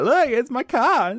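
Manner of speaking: very high and loud, drawn out; acted excited reply. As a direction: squeal it slowly in falsetto. Acting himself in mum exchange.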